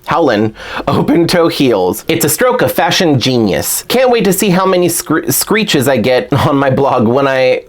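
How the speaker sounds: a light, shaky attempt at Brooklyn; amateur Brooklyn accent, lightly done; Claudine. Doll fan reading the character's blurb, light Brooklyn accent. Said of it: "My Claudine accent is not very good".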